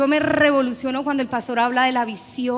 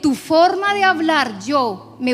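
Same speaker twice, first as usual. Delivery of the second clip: raised, louder preacher's voicing of God; emphatic insistence; 3 semitones higher, 5 dB louder, slower than usual. God answering Moses who disliked his voice, emphatic insistence. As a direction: insist with rising pitch and force.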